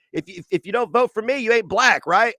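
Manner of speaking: old politician impression. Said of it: "Old corn pop".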